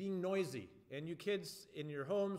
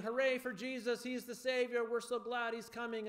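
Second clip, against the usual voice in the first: bright, higher excited cheer; 6 semitones higher than usual. Retold or imitated. Children's leader voicing the joyful crowd, excited. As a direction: cheer him in like a parade crowd. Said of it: "It's kinda like saying".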